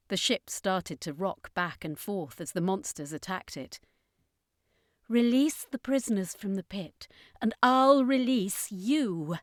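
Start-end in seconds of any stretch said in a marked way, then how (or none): 5.1-9.4 firm. Acted. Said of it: "Florence said more firmly".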